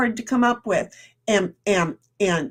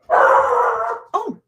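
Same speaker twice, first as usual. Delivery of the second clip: surprised; 6 semitones higher, 4 dB louder, much slower than usual. Real, not acted. Pizza arrives mid-stream.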